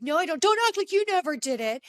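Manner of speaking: imitating him getting defensive; a hammed-up defensive husband; mock angry denial. Jax denies drug use angrily.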